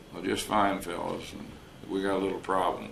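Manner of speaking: lightly raspy retold voice; a hint of a raspy man. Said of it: "And this raspy voice".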